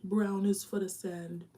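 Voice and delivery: slow, grand mock-patriotic reading; a touch of ceremonial speech; mock solemn recital. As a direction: recite a flag's meaning like a proud anthem. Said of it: "be like the West Indies now".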